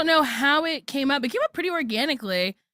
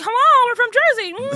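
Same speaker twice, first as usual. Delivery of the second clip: put-on higher, a light Jersey accent; lightly imitating how everyone back home talks; 11 semitones higher, 4 dB louder than usual. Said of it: "We are just like".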